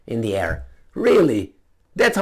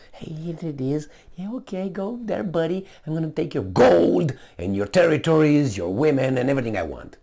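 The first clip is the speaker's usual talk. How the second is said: mock colonizer. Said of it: "came with a little bit".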